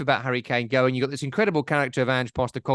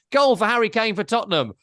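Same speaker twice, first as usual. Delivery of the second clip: raised, excited commentary call; football commentator; 7 semitones higher, 3 dB louder than usual. Retold or imitated. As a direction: mimic an over-dramatic goal commentator. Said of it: "I hate commentators who do this".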